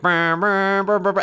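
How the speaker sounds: high, loud hummed brr beats; imitating theme music. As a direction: mimic the theme's opening riff with your voice. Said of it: "it's just like".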